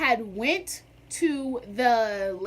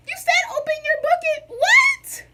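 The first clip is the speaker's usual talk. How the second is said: much higher, louder incredulous question; baffled; 6 dB louder than usual. Retold or imitated. Student confused when the teacher snaps at her, high and baffled. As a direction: ask it in total disbelief.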